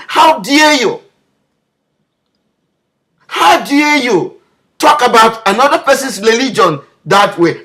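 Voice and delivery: rising outrage at the critics; angry rebuke. Real, not acted. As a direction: hurl each how dare you back at them.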